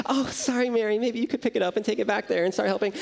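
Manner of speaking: high, quick, falsely sweet pointed remark; fast, syrupy, pointed suggestion; passive-aggressive hint. Retold or imitated. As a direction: drop the hint a little too brightly. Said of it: "She's like".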